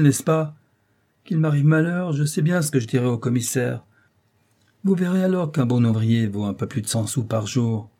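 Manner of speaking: put-on fed-up, defiant young scamp, lively emphasis; lightly voiced insolent rascal. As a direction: argue back with mild cheeky indignation.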